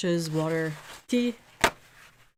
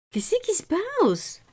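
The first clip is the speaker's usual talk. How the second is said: same question repeated much higher to the cat; 12 semitones higher, slower than usual. Real, not acted. Talking to her cat.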